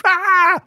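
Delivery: short high shriek of fright; retold scream. Model shrieking at the noise on set, high shriek. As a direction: shriek as if caught off guard. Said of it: "the Brazilian screamed".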